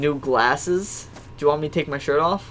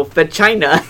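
"Va China" run together in one louder burst; said faster; 6 dB louder, slower than usual. Retold or imitated. Retelling how he was told to hurry it, "Va China" run together. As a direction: run "Va" straight into "China", punched out. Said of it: "say it faster".

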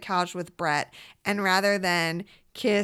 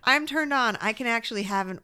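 mock breathy quote; 4 semitones higher than usual. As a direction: ham up her sultry line. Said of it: "she goes".

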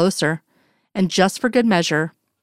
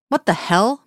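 barked; 3 semitones higher than usual. Acted. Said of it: "Mulder barks".

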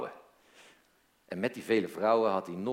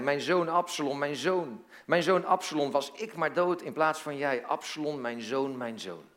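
high-pitched grieving father's cry, easing at the end; mild shout of grief; anguished cry; 5 semitones higher than usual. Acted. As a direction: cry out for a lost son, pitch raised then falling away. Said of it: "schreeuwde hij".

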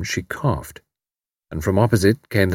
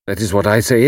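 bitterly. A narrator's reading. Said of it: "Karl went on bitterly".

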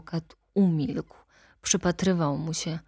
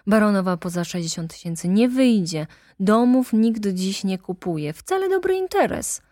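fast, louder, pressing; agitated attorney insisting; excited lawyer; 3 semitones higher, 5 dB louder than usual. Acted. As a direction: rush to talk him out of it. Lawyer argues quickly.

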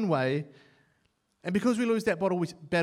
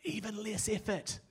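louder, higher taunting prayer; cheeky challenge to God; 7 semitones higher, 10 dB louder than usual. Retold or imitated. Student warning God about his lazy application, loud cheeky. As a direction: dare God with a grin. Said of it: "I'm like".

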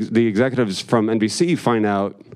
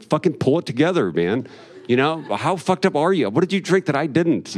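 livid scolding; 4 semitones higher than usual. Retold or imitated. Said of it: "and I'm livid".

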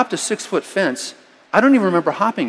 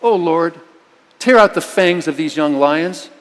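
fervent prayer. Shown as a demonstration. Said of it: "just say".

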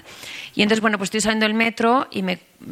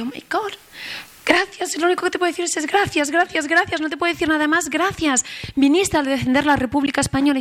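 much higher, pouring out gratitude; overcome with emotion; 8 semitones higher than usual. Retold or imitated. A historian thanking an old International Brigade veteran, high and deeply moved. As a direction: thank him again and again, moved to tears. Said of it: "yo es que me emociono".

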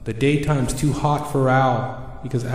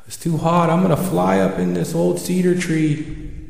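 higher-pitched owl voice, mildly put out; complaining owl; 5 semitones higher than usual. Acted. Owl escaping the sun into the cedar, complaining. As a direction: voice a bothered owl, lifted in pitch.

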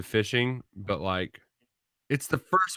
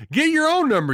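trying not to laugh; 6 dB louder than usual. Real, not acted. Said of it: "What was that?".

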